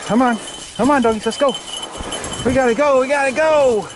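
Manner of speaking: calling the dogs onward; urging the dogs. Real, not acted. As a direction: push the dogs to go.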